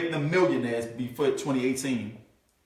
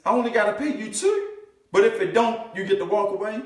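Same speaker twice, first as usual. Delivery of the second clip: lightly voiced surprised owner, rising higher; a hint of a stunned business owner; imitating a business owner; 6 semitones higher than usual. Speaker voicing an amazed business owner hearing the offer, rising disbelief. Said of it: "What do you think that business owner gonna say".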